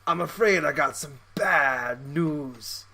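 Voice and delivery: slow, badly faked British accent; terrible British accent. Joker breaking bad news to Knuckles, bad British accent. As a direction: drawl it in a hammy, poor British accent. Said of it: "That's a terrible British accent".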